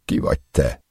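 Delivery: stammered whisper, voice gone with fear; stammering. Acted. A captive stammering at his captor in a whisper. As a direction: choke out the question half-voiced.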